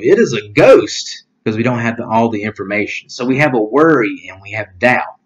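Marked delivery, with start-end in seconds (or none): 0.0-1.2 mild mock cry. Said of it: "crying out in that way of".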